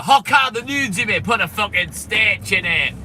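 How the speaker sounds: teasing, rough attempt at a Scottish accent; mock Scottish accent. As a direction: have a clueless go at sounding Scottish. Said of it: "Probably 'cause you've got Scottish".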